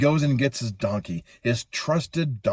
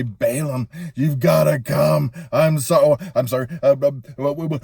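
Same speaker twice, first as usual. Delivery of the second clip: messenger voice; 3 semitones higher, 5 dB louder than usual. Acted. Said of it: "oh, forget the voice".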